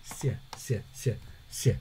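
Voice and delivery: "sya" breathed out like wind, no voice; airy sya. Shown as a demonstration. Teacher drills the airy soft sound. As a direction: let "sya" slide out on air. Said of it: "lebih ke angin".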